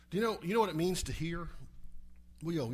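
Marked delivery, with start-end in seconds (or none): none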